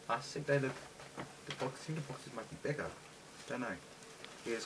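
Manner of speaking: talking while chewing gum. Real, not acted. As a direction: talk around a piece of gum. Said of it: "it looks like I'm chewing, I've got some gum in my mouth".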